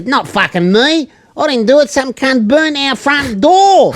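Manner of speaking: high, drawn-out protest; mock indignant denial. Acted quarrel, woman denies the blame.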